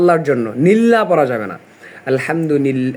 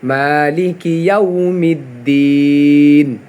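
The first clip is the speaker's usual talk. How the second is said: recited correctly; 2 semitones lower than usual. Shown as a demonstration. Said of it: "ওয়াটাকে গোল করে উচ্চারণ করতে হবে".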